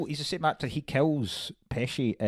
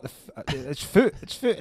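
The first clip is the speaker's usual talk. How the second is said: lightly voiced Pesci groping for foot; a hint of Pesci searching for the word foot; Pesci fumbling; 3 dB louder than usual. Telling mum about the deer, lightly voiced Pesci. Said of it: "It's like".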